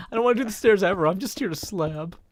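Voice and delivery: put-on whining like a sulky kid; whiny voice. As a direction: whine the complaint, dragging it out. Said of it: "I was using a kind of over whiny voice".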